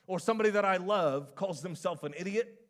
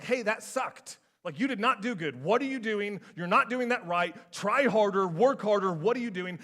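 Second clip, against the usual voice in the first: louder, scolding coach tearing into a player; harsh coach; 4 dB louder than usual. Retold or imitated. Football coach scolding a kid who played badly, loud and harsh. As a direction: bark it out like a fed-up coach on the sideline. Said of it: "there's a way to tell a kid".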